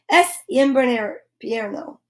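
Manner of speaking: invierno with V said as B, slowly: inbierno; slow Spanish demo. Shown as a demonstration. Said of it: "the V is pronounced like a B".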